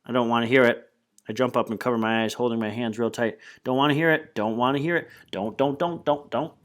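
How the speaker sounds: rising frantic "don't" repeated; panicked refusal. Acted. Boy covering his ears, refusing to hear, panicked. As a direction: drown out the news in panic.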